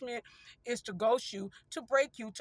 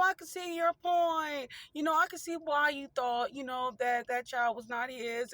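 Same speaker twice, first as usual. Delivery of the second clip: sarcastic. Pretend. To a narcissistic partner, mock-humble sarcastic apology. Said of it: "that's the sarcastic part".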